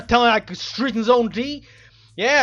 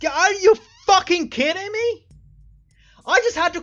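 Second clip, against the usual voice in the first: incredulous outrage; 5 semitones higher than usual. Real, not acted. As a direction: fling it at the game in outrage. Player discovers the trivial solution.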